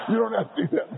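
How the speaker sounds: words bubbling with laughter; amused, laughing aside; laughing while talking. Real, not acted. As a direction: talk through a lingering laugh.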